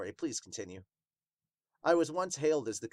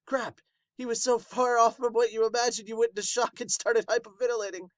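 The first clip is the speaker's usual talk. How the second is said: higher, louder heroic voice; Wild's proud big-brother voice; 3 semitones higher, 5 dB louder than usual. Acted. Wild tells the others his brother is still his brother, higher and proud.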